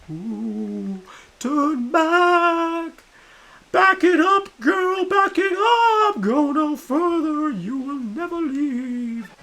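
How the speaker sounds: very high, loud, slow Australian ghost shouting; hammed-up ghost warning in a high Australian accent; mock ghost in Australian accent. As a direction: wail it as a spooky pirate ghost, Aussie style. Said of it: "Nice Australian accent, mate".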